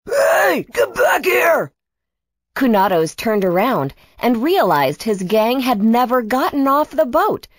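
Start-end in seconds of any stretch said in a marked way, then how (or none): 0.1-1.7 high, urgent shout; calling after them. Acted. Kunatos stranded as his gang rows away, urgent yelling. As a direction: shout for the boat to return. Stranded villain calls departing boat.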